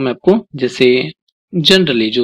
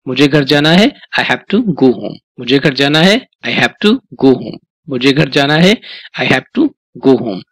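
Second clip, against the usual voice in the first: slow drill; slower than usual. Shown as a demonstration. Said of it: "आपको बोलना है मेरे साथ में ना".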